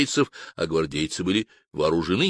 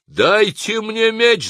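very high, loud, slow cry; desperate shout; 13 semitones higher, 5 dB louder, much slower than usual. Acted. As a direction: scream for a sword. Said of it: "закричал я".

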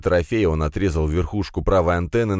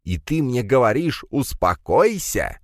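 high-pitched indignant protest; creaky angry retort; 8 semitones higher than usual. A narrator's reading. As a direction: pile on the outrage, voice raised high. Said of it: "заскрипел в ответ Пегасов".

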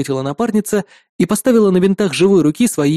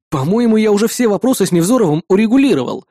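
indignant; 4 semitones higher than usual. Acted. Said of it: "возмутился я".

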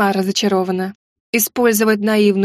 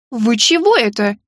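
slow, stretched indignant question. A narrator's reading. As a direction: drag out the question in affront. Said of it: "возмутилась я". (возмущённо, протяжно)

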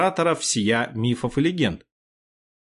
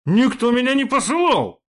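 higher, louder angry retort; a touch of a growl, high and louder; mild growl; 11 semitones higher, 4 dB louder than usual. A narrator's reading. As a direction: snap it back like a wounded rich boy. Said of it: "прорычал Гектор".

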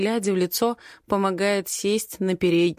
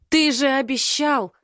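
high, strained cry on the edge of tears; anguished cry; 6 semitones higher, 3 dB louder than usual. Acted. The heartbroken girl screams at Den: anguished cry. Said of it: "выкрикиваю с надрывом".

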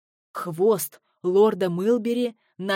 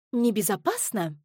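squealed. A narrator's reading. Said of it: "взвизгнула землеройка".

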